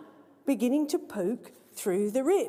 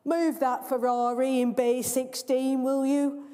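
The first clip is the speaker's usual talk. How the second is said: mild mock shout. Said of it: "shouts the valet".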